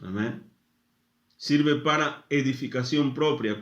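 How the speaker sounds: ordinary talk, nothing marked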